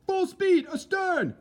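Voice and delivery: officer shouting the order to the engine room; shouted order. Acted. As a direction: roar the command to the engine room.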